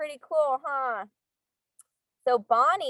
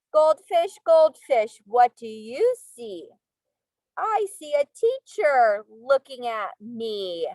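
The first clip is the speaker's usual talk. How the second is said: sing-song storybook reading; reading to children; 4 dB louder, slower than usual. Acted. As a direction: read aloud to little kids. Reading picture book to class.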